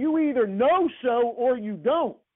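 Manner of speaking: imitated yell at the top of the lungs. Retelling how a coach yelled at his quarterback: imitating Coach Bryant yelling at the top of his lungs. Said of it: "Coach Bryant yells out at the top of his lungs".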